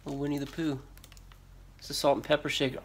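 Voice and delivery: normal talking voice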